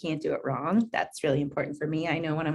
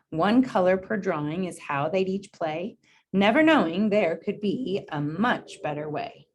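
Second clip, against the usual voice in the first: gentle, unhurried storybook read; reading to children. Acted. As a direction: read it out to a class of kids. Reads picture book to class.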